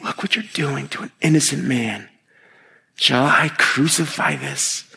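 hushed, mildly mocking appeal; understated mocking question. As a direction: press them with mock disbelief. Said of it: "Again, mocking them".

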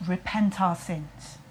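slow, low, grave repent our sins; a mild mock preacher's doom; solemn preacher. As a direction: repent intoned slowly and heavily like a sermon. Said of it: "Do you feel how we went".

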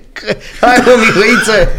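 strigă printre hohote de râs; râde în hohote și strigă vesel; râzând. Real, not acted. Râde de gluma cu Mihai. (strigăt vesel printre râsete)

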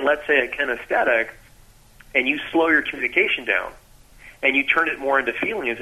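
ordinary delivery

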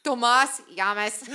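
put-on Spanish-ish accent. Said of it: "you couldn't put the two accents together".

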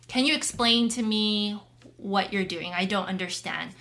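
a calm, curious request to understand. Retold or imitated. Wife showing the gentler way husband could ask. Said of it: "the slower approach".

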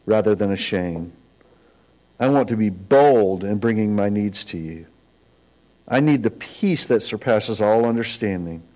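measured, earnest prayer with pauses; subdued, sincere pastor's prayer; leading prayer. Real, not acted. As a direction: pray aloud phrase by phrase for others to follow. Leads the congregation in prayer.

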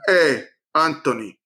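lightly imitated Portuguese accent; a hint of Portuguese accent. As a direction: imitate a friend's Portuguese accent, pitch lifting on the question. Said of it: "in his Portuguese accent".

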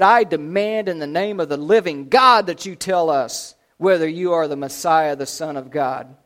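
stern demand. Acted. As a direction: open loud and insistent, easing at the end. High priest demanding an answer.

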